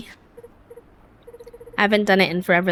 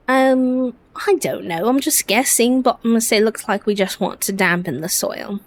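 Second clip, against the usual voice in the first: earnest storybook friend, lightly acted; British-accented game character. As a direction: read it as an eager, bookish friend with a put-on English accent. Reads game character's dialogue.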